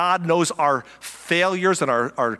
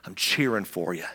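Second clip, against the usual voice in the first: proud father; 5 semitones lower than usual. Retold or imitated.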